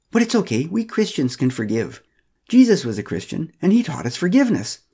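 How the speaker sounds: high, bright-eyed condescending church lady; patronising Pamela. Acted. Pamela lecturing Joseph at the Christmas party, high and patronising. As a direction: talk down to him sweetly, pitched high.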